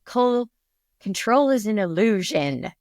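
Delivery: lightly attempted Australian accent. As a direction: quote it with a hint of an Australian accent. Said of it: "in her adorable Australian accent".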